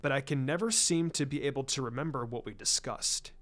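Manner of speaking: a hint of a grave clan patriarch, measured and formal; lightly voiced Hiashi. Hyuga head confiding in Shikaku, lightly voiced and grave. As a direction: speak as a proud head of clan admitting defeat. Hiashi describing memory gaps.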